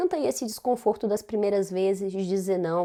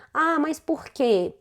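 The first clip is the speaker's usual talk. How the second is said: higher, drawn-out challenge; mock protesting question; 5 semitones higher, slower than usual. Someone questioning her boundary, mock protesting. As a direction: imitate someone pushing back for a reason.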